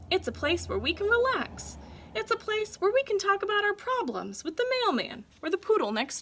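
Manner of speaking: gleeful boast, rising with excitement; proud showing off. Acted. Dog proudly showing his owner the club, excited.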